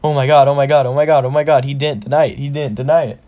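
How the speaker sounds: rapid looping babble, no gaps; flustered inner panic. Acted. Elsie embarrassed at being called girlfriend, flustered racing thoughts. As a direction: repeat it breathlessly like a mind overloading. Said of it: "'cause she thinks".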